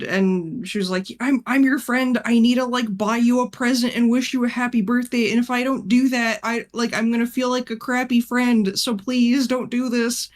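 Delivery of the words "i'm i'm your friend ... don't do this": higher-pitched, mildly pleading retelling; a touch of mock desperation; imitated breakdown. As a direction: beg a friend, lightly imitating desperation. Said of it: "having, like, a fucking breakdown".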